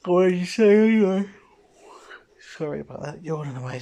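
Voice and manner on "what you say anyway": loud retort. Acted. Voicing character's defiant retort.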